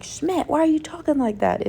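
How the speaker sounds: playfully exasperated question; mock exasperation. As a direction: pitch it up, pestering a TV character. Mock complaint to a TV actor.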